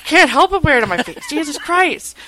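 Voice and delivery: high, loud, fed-up cry; exasperated outburst. Retold or imitated. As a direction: blurt it out, fed up with yourself. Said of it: "I'm like".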